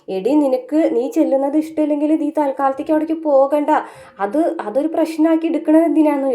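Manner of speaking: a light grandma voice, chiding; grandmother voice. Retold or imitated. Grandmother telling Vaijayanthi not to make it an issue, mild.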